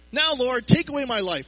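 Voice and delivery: loud, high, petulant wail; hissy fit. Retold or imitated. Jonah begging God to end it, loud tantrum. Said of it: "does this not sound like a hissy fit".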